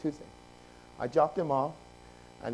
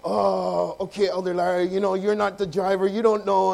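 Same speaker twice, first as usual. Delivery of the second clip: louder, put-upon comeback; acted defensive retort; 6 dB louder than usual. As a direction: brush off the elder's criticism, loudly.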